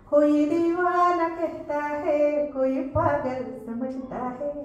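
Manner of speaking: slow, drawn-out recital of Hindi verse; poem recital. Shown as a demonstration. Teacher reciting Kumar Vishwas's muktak to students, slow poem recital. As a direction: lay each line out slowly, savouring it. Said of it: "त्यांची ती मुक्तक माहिती आहे तुम्हाला".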